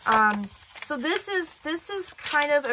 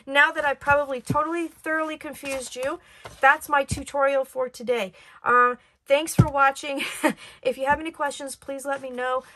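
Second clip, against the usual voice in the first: raspy voice; 3 semitones higher than usual. Real, not acted. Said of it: "thanks for listening to my raspy voice".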